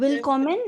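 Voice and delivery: Willkommen said the German way, rising; German pronunciation. Shown as a demonstration. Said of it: "if you wanna say welcome".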